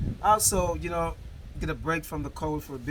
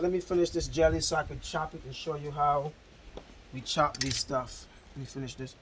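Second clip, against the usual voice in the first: talking while drinking; words round a sip of coconut water; mouth full. Real, not acted. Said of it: "drinking that coconut water".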